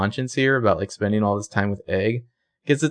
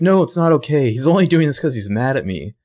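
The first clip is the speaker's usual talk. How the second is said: higher, louder, agitated; upset protest; 5 semitones higher, 4 dB louder than usual. Retold or imitated. Spencer accusing Toby of arresting out of spite, higher upset protest. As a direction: insist it's personal, voice rising.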